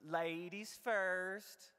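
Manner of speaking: lightly put-on Southern accent, drawn out slowly; slow, courtly Southern accent. Host inviting his date into the tub, Southern accent. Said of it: "I put on my southern accent".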